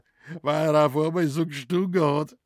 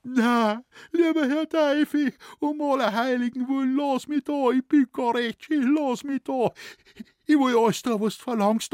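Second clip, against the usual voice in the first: high, louder, whining beg with mock sobs; mimicking the shoemaker begging the devil; imitated sobbing plea; 10 semitones higher, 5 dB louder than usual. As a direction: plead in a high, frantic whimper. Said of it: "hat er geschluchzt".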